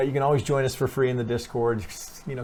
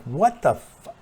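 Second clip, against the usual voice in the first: mock-baffled exclamation, a touch louder; 5 semitones higher, 5 dB louder, slower than usual. Trader voicing his confusion at a messy chart, mock-baffled. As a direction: act stumped by a chart you can't read. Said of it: "I'm like".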